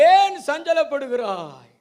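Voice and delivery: slow, drawn-out ஏன் சஞ்சலப்படுகிறாய், pleading lilt; husband's slow mock-tender question; mock consoling. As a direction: drag ஏன் சஞ்சலப்படுகிறாய் out like hollow comfort. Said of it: "எல்கனா சொன்னாரு".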